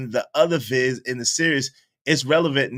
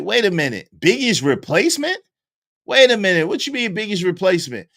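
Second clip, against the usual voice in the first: higher, rising disbelief; mild shock; 5 semitones higher, faster than usual. Retold or imitated. A rapper questioning another rapper about a late rapper's replacement, mildly shocked. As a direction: caught off guard, asking again. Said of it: "so then she was like".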